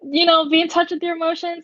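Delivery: high, loud, incredulous challenge; pointed question. Retold or imitated. She presses her date on feelings, high and loud. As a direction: push back on him, half disbelieving.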